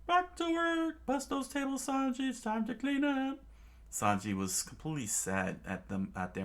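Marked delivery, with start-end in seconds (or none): 0.1-3.4 high, ordering voice; high cartoon head chef; bossy head chef. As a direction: order the boy back to work.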